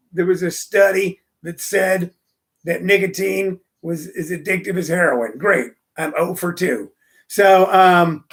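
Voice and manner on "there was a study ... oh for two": lightly voiced Bill Hicks, dry comic delivery; a hint of Bill Hicks doing a deadpan bit; Bill Hicks impression. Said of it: "that was a Bill Hicks voice".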